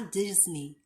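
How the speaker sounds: "Disney" with a final ee; correct Disney. Shown as a demonstration. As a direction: say "Disney" ending in ee. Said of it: "você fala Disney".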